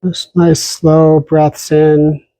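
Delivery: calm, unhurried meditation guide with long pauses; guided meditation. Real, not acted. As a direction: settle listeners gently into posture and breath. Begins leading a guided meditation.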